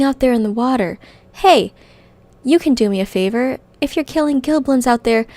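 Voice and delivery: loud, fast greedy goblin. Acted. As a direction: sell the greed with energy. Reads the goblin's lines.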